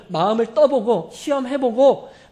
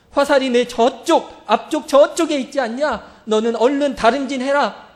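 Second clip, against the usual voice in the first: sad loud call; 4 semitones higher, 6 dB louder than usual. Retold or imitated. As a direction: call out far while heartbroken. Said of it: "슬픈 목소리로 크게 외치죠".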